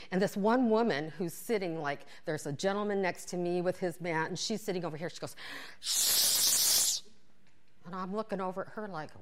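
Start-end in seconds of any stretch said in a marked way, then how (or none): 5.8-7.0 unvoiced shushing hiss; mock shush. Woman on next mat shushing her, unvoiced shush. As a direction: hush them like a stern neighbour.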